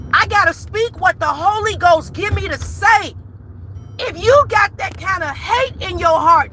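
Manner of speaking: preacher calling out her viewers; preaching. Real, not acted. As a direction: preach with conviction. Preaching by the Holy Ghost.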